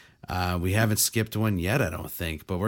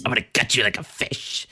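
voice changer voice; 2 semitones higher than usual. Pretend. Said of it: "your voice sounded like Chucky".

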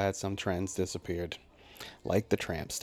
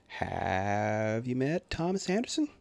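slow, higher smooth wingman intro; Barney; 4 semitones higher, slower than usual. Retold or imitated. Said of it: "no one did the wingman move better than Barney".

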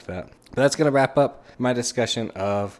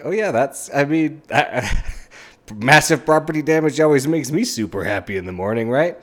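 higher, laughing mock delight; sarcastic laughing; 5 semitones higher, 4 dB louder than usual. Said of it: "it's like".

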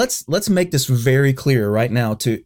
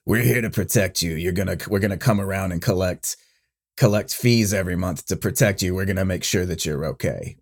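mob enforcer; 4 semitones lower than usual. Retold or imitated. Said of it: "the mob coming and said".

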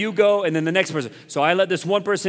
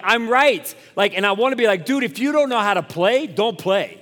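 retold telling-off, pitched up and emphatic; exasperated mock scolding of another player; indignant venting; 4 semitones higher than usual. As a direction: let out what you wished you'd said. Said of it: "Like, I wanna say all these things to him".

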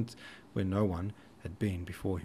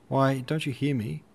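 raised, louder impatient question; impatient call; 5 semitones higher, 5 dB louder than usual. Acted. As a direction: insist on being heard.

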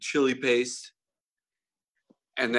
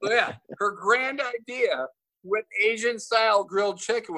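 laughing retelling; 8 semitones higher than usual. Real, not acted.

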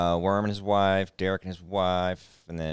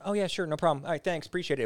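agreeable imitated reply; 9 semitones higher, faster than usual. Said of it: "it wasn't like a".

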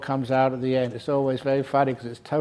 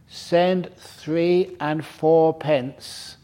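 slow garbled order; much slower than usual. Retold or imitated. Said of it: "By the time it got to the little private it was".

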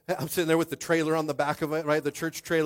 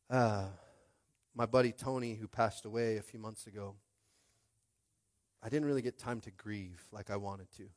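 quiet grief; 5 semitones lower, 8 dB quieter than usual. Real, not acted. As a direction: speak it gently as a hard memory. Grieving story, slow and soft.

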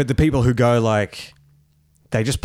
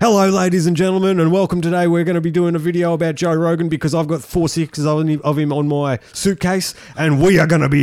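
YouTuber cadence; 5 semitones higher, 3 dB louder than usual. Retold or imitated. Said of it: "he speaks in that same cadence".

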